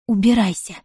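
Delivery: ordinary delivery, nothing marked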